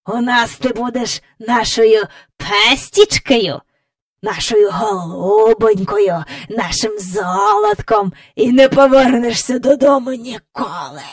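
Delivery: lightly voiced old man cooing mockingly; a hint of a sinister doting elder; gloating great-grandfather. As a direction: draw out the pet names with relish. Great-grandfather mockingly claims Jane as pet.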